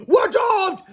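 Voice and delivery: high, loud wail of doom; panicked shout. A narrator's reading. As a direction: cry out like all is lost. Falling through the air.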